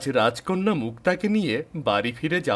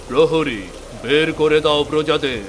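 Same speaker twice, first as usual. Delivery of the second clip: loud command; 5 dB louder than usual. Acted. King calls guard to expel.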